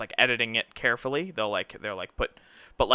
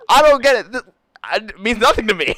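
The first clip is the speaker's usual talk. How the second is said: much higher, louder bewildered; honestly puzzled by the trophy; mock baffled prisoner; 9 semitones higher, 9 dB louder than usual. Musician bewildered, retold.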